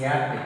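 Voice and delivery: "apple" opened with a y glide; wrong ya sound. Shown as a demonstration. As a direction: pronounce "apple" as "yapple". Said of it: "ya sound".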